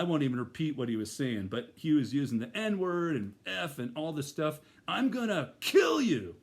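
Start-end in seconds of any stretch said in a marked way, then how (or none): 4.9-6.4 slow, raised, threatening snarl; a slowed-down threat, louder and higher; menacing threat. Retold or imitated. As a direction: growl the threat at him slowly. Attacker threatening in parking lot.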